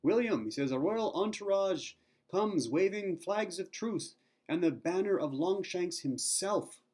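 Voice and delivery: loud, high call to someone below; slow, drawn-out proclamation called from above; shouting down. Retold or imitated. Henchman shouting news down to Wallace from the rampart. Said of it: "one of his henchmen shouts down to him from the rampart".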